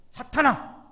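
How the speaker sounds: loud shout at his disciple; thundering rebuke. Retold or imitated. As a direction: bellow it as a stern rebuke. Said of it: "이렇게 소통치시죠". (제자를 향해 크게 호통치는 예수님)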